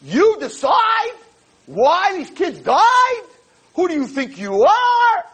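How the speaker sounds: attack him with outraged shouts; angry student. Retold or imitated. High school girl attacking the rabbi, angry shout. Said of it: "They were not happy".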